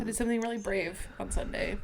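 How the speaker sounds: conspiratorial whisper; hushed mock-secret whisper. Real, not acted. Teasing confession before story.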